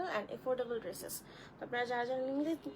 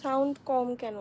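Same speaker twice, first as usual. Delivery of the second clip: louder, checking that she can be heard; raised voice; 7 dB louder than usual. Real, not acted. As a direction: speak up to a listener who can't hear. Answers complaint that sound is low. (জোর গলায়, একটু চেঁচিয়ে)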